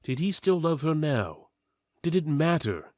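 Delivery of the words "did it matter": usual speaking voice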